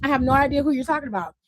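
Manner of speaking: quoting Truth. Retold or imitated. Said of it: "And Truth was like".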